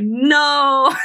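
high, wailing imitation of mom; bawling mom, played with amusement; mock crying. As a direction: cry it out in mock despair. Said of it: "Like, she started crying".

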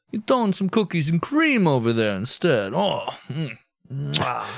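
wandering mock gangster accent, part Borat, part Italian; New York gangster accent. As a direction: put on a cartoon New York mobster accent. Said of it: "to New York gangster".

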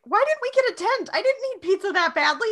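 high-pitched mock fretting; imitating a worked-up groom; panicked whining. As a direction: wail it like someone in a comic panic. Acts David panicking while pacing.

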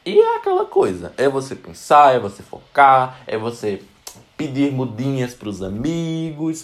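loud, urging every phrase; emphatic. Real, not acted. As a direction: push each phrase out loud.

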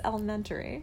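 ELEMENTARY ending "-tuh-ree"; soft "elementary" with reduced ending; correcting pronunciation. Shown as a demonstration. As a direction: say "elementary" without the AIR sound. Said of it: "you said it differently this time".

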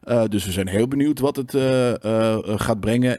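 mock of a boring games presenter; dry news read. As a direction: read it like a dull newsreader. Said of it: "heel droog soort van".

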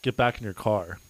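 loud re-enacted calling out; retold yell. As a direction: bark it like an order across a lot. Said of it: "I yell at him".

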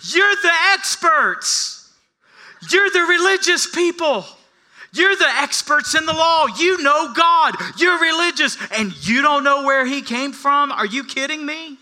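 high, loud, punching each YOU; full-force preaching. Acted. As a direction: hammer the experts with mock disbelief.

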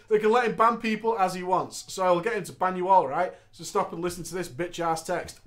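a hint of an angry healer; voicing the healer. Healer threatening bans, a hint of anger. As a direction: threaten them, lightly acted. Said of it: "The healer finished it up".

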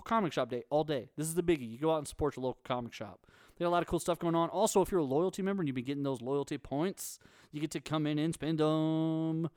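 upbeat promo announcer read; hype voice. Acted. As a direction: pump it up like a store ad. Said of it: "That was my hype voice".

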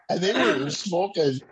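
ordinary talk, nothing marked

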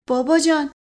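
loud, pleading cry to her father; trembling cry. Acted. Leili begging her father not to get angry, trembling. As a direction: beg him to calm down, voice trembling. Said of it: "لیلی با صدای لرزانی فریاد زد".

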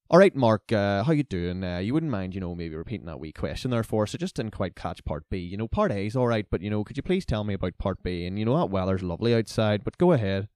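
put-on thick Fermanagh country accent. Country student protesting to the lecturer, in a mock thick Fermanagh accent. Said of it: "country accent I'd ever heard".

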